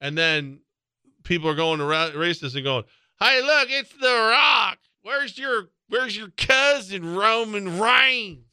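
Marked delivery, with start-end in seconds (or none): 3.2-8.4 hammed-up hick fan yelling at The Rock; mock nascar fan heckler.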